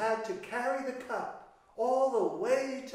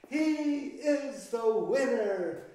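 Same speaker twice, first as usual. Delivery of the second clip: cheering; 3 semitones higher, 5 dB louder than usual. Acted. Cheering the winner.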